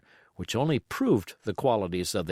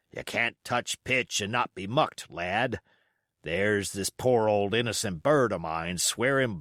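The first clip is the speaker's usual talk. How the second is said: put-on old cook's advice. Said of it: "John would add".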